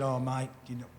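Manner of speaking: lightly put-on Australian accent, barely there; a half-hearted Aussie accent; bad Aussie accent. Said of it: "that's a bad Aussie accent".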